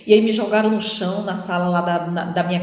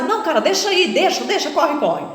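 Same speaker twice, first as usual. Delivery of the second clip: a touch higher, hurried; other robber urging; 6 semitones higher than usual. Retold or imitated. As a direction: tell him to leave it. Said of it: "falando que não". (bandido apressado, um pouco agudo)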